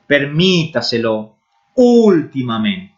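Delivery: Permítaselo and Ultimamente in careful Spanish, stressing MÍ and Ú; Spanish pronunciation. Shown as a demonstration. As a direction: read Permítaselo, then Ultimamente, as clear Spanish examples. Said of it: "olha essas palavras". (Permítaselo e Ultimamente pronunciados em espanhol, tônica no MÍ e no Ú)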